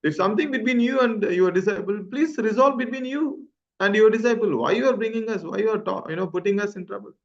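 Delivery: retold pleading. Atulai pleads with the master.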